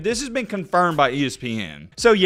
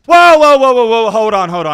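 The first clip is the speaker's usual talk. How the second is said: very high, very loud screaming whoa; 4 semitones higher, 11 dB louder than usual. Real, not acted. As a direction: yell to stop everything. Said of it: "Would you quit screaming?".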